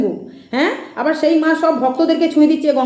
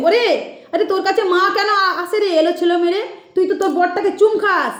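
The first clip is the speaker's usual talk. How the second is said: mildly higher-pitched mock scolding; imitated goddess medium; 3 semitones higher than usual. Critic quoting the medium's rebuke back at her, lightly mocking imitation. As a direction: mimic the medium's chiding, lightly put on. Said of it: "আমাকে বলেছিলে একদিন".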